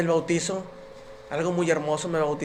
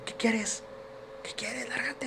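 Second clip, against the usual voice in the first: half-asleep wife snapping; 7 semitones higher, 11 dB quieter, slower than usual. Retold or imitated. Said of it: "sale entre dormida y me dice".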